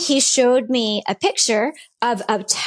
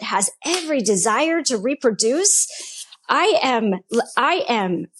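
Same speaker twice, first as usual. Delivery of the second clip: angry pleading; 3 semitones higher than usual. Retold or imitated. Woman retells demanding answers from God on her birthday, angry pleading. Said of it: "I am so angry. I'm so mad".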